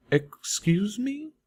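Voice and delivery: drawn-out baffled mare; Velvet Remedy voice. Acted.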